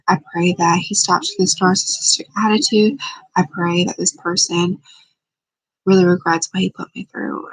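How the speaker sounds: earnest spoken prayer, steady. Acted. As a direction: pray it out with conviction. Leads a prayer.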